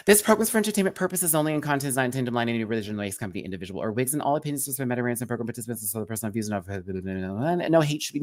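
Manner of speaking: very fast legal disclaimer read; rattled-off disclaimer. Acted. Host reading the program's disclaimer, rapid-fire rattle. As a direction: race through the small print, falling away.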